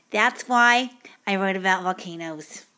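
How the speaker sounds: lightly voiced bored student reading his ending; a hint of a clueless essay writer; dull student voice. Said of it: "he talks like this".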